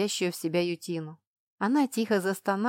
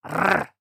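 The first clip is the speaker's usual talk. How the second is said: growl; 6 dB louder than usual. A narrator's reading. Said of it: "получила в ответ".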